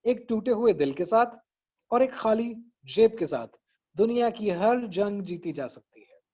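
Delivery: "एक टूटे हुए दिल के साथ", pause, "और एक खाली जेब के साथ", pause, then the long line; three measured beats with pauses between; recited motivational line in balanced phrases; phrases matched in length. Shown as a demonstration. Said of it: "size का आपने लंबा कर दिया".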